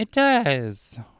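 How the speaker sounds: very high cracking voice, drawn out. Agreeing that the new hair matches the shirt, voice cracking. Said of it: "my voice cracked".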